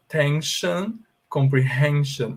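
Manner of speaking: "Tension" and "comprehension" each ending in a clear shun; English pronunciation demo. Shown as a demonstration. Teacher asking students to heed the pronunciation, English demo. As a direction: model "Tension" and "comprehension" with an sh sound before the final n. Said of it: "Prestem atenção à minha pronúncia".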